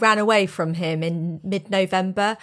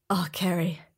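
disappointed whisper of her name; 3 semitones lower, 6 dB quieter than usual. Retold or imitated. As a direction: breathe it out, no voice. Ex-partner criticising her gift.

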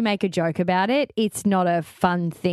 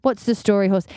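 slight Irish tinge; accidental Irish accent. Retold or imitated. Host explains the Irish greeting, slight Irish accent. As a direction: slip lightly into an Irish accent. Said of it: "I just realised I did an accent".

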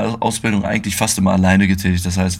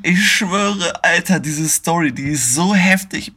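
excited disbelief; 9 semitones higher, slower than usual. Real, not acted. Reacts to his own wild story.

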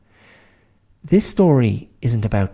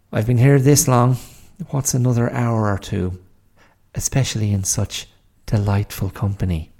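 put-on dry sarcastic old woman; 3 semitones higher, 3 dB louder than usual. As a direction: lay on the sarcasm lightly. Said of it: "I think you're being just a little sarcastic".

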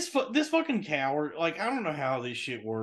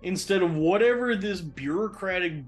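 raised, higher-pitched venting; exasperated rant; 4 semitones higher than usual. Retold or imitated. Ranting in his head at the manager who won't fire him straight: exasperated and raised.

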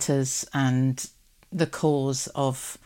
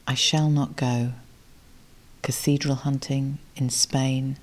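poem reading. Acted. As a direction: let each line land, unhurried, like a gift. Reads the gift poem aloud.

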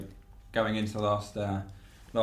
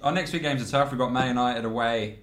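words pushed out on a burp. Real, not acted. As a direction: talk through a rising burp. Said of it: "I'm doing the burp thing now".

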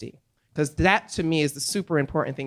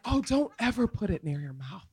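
warning shout; 9 semitones higher, 4 dB louder than usual. Retold or imitated. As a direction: yell a warning over laughter. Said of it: "now I'm like".

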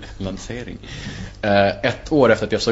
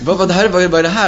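surprised; 9 semitones higher, 6 dB louder, faster than usual. Retold or imitated. Stunned by the friendly boyfriend.

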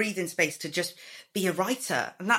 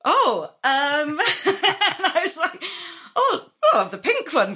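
laughing through the words, pitched up; retelling the order while laughing; 10 semitones higher, 5 dB louder than usual. Retold or imitated. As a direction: giggle while ordering the pink one.

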